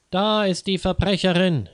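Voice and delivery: high-pitched, furious accusation; acted outburst of fury; enraged shout. A narrator's reading. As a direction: cry out the accusation, beside yourself with rage. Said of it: "schrie Frau Xavier außer sich vor Wut".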